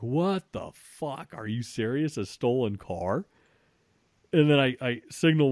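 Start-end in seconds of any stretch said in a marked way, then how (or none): 0.0-3.2 slow, drawn-out disbelieving words; stunned disbelief. Retold or imitated. Man accused of a stolen car, slow stunned disbelief. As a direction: let the shock stretch every word. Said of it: "I was like".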